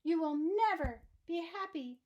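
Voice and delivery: damn her with all your rage; furious curse. Acted. Archduke shouting a curse at Annabel, loud and high. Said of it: "hurled the box out ... and shouted".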